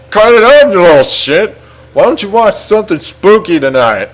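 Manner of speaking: high, loud start, easing off; mock exasperated father telling off his son; scolding dad. A narrator's reading. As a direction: scold sharply, then settle into a suggestion.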